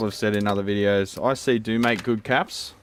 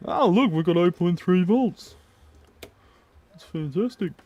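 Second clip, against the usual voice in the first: excited; 10 semitones higher, 4 dB louder than usual. Acted. Mock excitement at reading.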